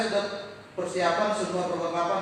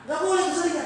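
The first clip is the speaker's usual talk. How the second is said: high, loud scolding; scolding nurse; 12 semitones higher, 8 dB louder than usual. Retold or imitated. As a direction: tell him off sharply, like an annoyed nurse. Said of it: "saya dimarahin".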